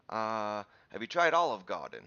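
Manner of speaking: put-on New York accent, dropping the R in Garden; attempted New York accent. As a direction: imitate a New York beat cop's accent. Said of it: "I'm doing some sort of accent".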